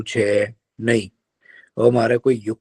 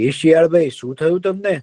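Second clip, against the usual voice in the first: higher, concerned deer voice; kind deer; 5 semitones higher than usual. Acted. Deer asks the crying fox what happened, concerned. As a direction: ask gently like a caring deer.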